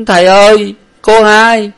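high, loud wailing, slowing at the end; crying. A narrator's reading. Servant tells his master she is dead, crying. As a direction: wail out the terrible news. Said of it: "rồi khóc mà rằng".

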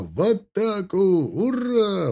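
high battle cry to charge; rallying cry. A narrator's reading. Officer launches the attack waving sabre, rallying cry. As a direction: send the call high and urge them on. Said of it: "прокричал он призывно".

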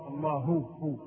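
"الله" ending in a distinct hu, then hu alone; clear haa. Shown as a demonstration. Teacher isolating the correct sound, "الله" with a clear hu. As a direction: pick out the h at the end of "الله". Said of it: "ينبغي أن يظهر الهاء".

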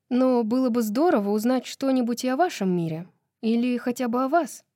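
put-on lightly animated young-woman dialogue; chatty heroine.

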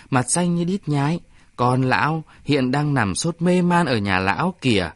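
a grumpy villager speaking out to the crowd; bực bội tuyên bố giữa đám đông; irritated declaration. Acted. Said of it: "bực bội tuyên bố".

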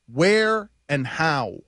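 half speed, dropping low. Shown as a demonstration.

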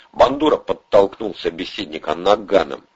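ordinary talk, nothing marked

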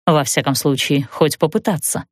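usual speaking voice

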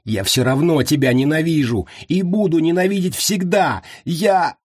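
high, mounting cry; desperate hatred. A narrator's reading. Prisoner fights the spell, crying out hatred.

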